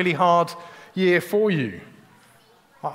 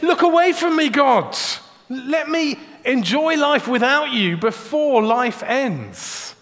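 much higher, louder, pleading cry; raised desperate outburst; loud plea; 5 semitones higher, slower than usual. Retold or imitated. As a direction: fling the words up at God. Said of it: "He's saying".

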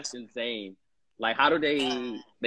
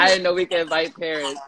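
laughing higher mock of her; imitating daughter; 5 semitones higher than usual. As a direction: repeat the excuse in a teasing voice. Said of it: "this is how you sound".

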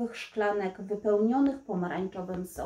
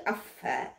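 disgust; 5 dB quieter than usual. Acted. Disgust at eating flies.

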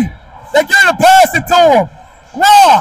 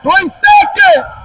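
calling from far away; 13 semitones higher, slower than usual. Real, not acted. Coach yelling a call from sideline.

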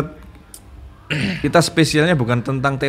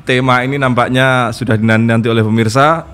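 announcer handover. Acted. Host formally hands over to the ustadz, announcer voice. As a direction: hand the show over with ceremony.

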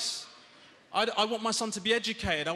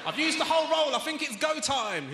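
lightly mocked dim bloke, higher, chuckling; 8 semitones higher than usual. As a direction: play the eager idiot with a laugh. Mocking dipsticks using cling film.

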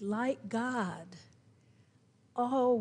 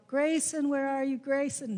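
calling the cat; 3 semitones higher than usual. Retold or imitated. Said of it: "calling for Grayson".

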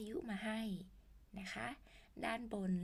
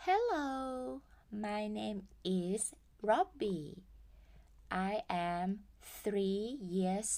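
put-on cheerful kid intro for the class; a hint of a small boy; voicing Robbie; much slower than usual. Teacher voicing child Robbie.

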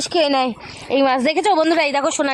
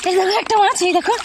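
much higher, thrilled call; excited; 6 semitones higher than usual. Real, not acted. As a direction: burst out with the good news. Caught another fish.

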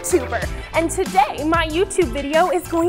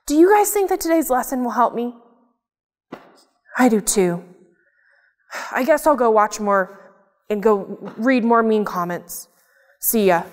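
glum puppet; 4 semitones lower than usual. Acted. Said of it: "I'm really annoyed today".

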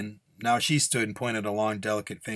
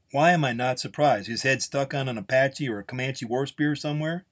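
higher-pitched, lightly voiced sarcasm; sardonic gunslinger; 4 semitones higher, 3 dB louder than usual. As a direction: guess the grisly end, unsurprised.

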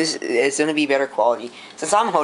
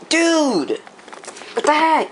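shocked; 13 semitones higher, much slower than usual. Real, not acted. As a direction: yelp it out in sudden shock. Shocked at spilled detergent.

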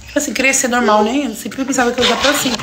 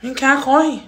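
calling out; 3 semitones higher, 3 dB quieter, much slower than usual. Real, not acted. Calling partner from another room.

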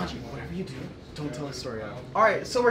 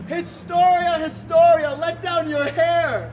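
calling out; 4 semitones higher, slower than usual. Acted. Calling up to Historia.

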